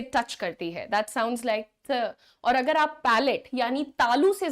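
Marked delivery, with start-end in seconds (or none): 0.9-2.1 ट with tongue touching the front teeth, said slowly; dental t sound. Shown as a demonstration. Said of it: "जब आप ट बोलते हैं". (दांतों वाला ट धीरे से)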